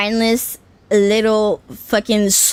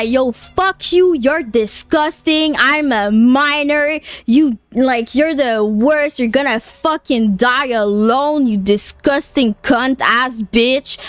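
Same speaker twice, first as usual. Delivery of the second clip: retold screaming at a creep. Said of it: "I start screaming at that guy".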